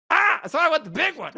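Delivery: loud, high burst of glee; delighted realisation. Retold or imitated. Passenger learns drinks are free, delighted. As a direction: squeal it, suddenly greedy.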